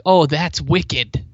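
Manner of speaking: "wicked" drawn out slowly as a standalone adjective; slow mock quote ending on a stretched "wicked"; wrong slang usage. Shown as a demonstration. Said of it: "it is not like".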